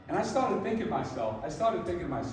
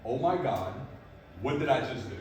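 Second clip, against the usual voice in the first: worried inner voice; 5 semitones lower, 4 dB quieter than usual. Retold or imitated. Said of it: "One is like".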